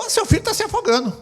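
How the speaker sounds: high-pitched warning from a worried lady at the pool; alarmed lady. Retold or imitated. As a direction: sound the alarm like a startled bystander. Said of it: "uma senhora falou".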